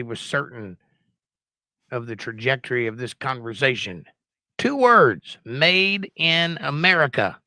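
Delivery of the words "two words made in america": mocking the President. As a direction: drag out "made in America" like a grand proclamation. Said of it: "He said it twice for emphasis".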